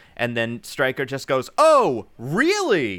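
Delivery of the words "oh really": heavy, bratty, high, loud, swooping sarcasm. Retelling how a character answered his goon, mimicking a really sarcastic tone. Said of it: "really sarcastically".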